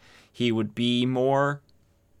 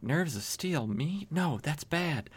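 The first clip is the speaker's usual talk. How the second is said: much softer, meek mock fluster; timid mock Clark; 4 semitones higher, 9 dB quieter, slower than usual. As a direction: shrink back like a coward caught being brave. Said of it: "And Clark's like".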